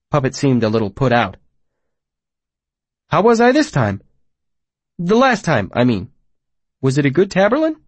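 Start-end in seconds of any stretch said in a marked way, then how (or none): 3.1-7.8 high, eager eccentric; a childlike hermit seeking praise. Acted. Puppet's voice.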